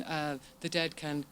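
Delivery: shivering from the cold; talking while frozen stiff; freezing cold. Real, not acted. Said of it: "Sorry, I'm absolutely freezing".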